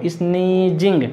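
"sneezing" with a slight lead-in before the S; lightly sounded S in "sneezing". Shown as a demonstration. Teacher noting the S is slightly spoken, "sneezing" sounded out. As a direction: draw out "sneezing", touching the opening S lightly. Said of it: "थोड़ा सा बोलने में आ रहा हो".

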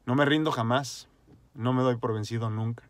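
loud, rousing declaration; rallying motto. Real, not acted. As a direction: proclaim it like a battle cry.

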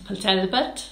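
a playful stab at a Welsh accent on Port Talbot; a hint of a Welsh accent, lightly done. Shown as a demonstration. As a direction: say Port Talbot with a lilting Welsh rise at the end. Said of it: "It's my Welsh, innit?".

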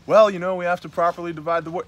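high, fast mock preacher excuse. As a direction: parrot the excuse in a sneering voice. Mocking opponents' excuse.

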